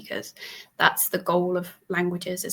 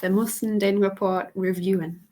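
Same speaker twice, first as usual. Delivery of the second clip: put-on German accent. Host tries a German accent for the guest. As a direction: speak it in a careful German accent. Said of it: "to give it a German accent".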